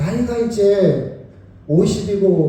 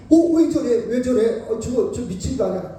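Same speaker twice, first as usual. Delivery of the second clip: scornful bystander; 5 semitones higher than usual. Acted.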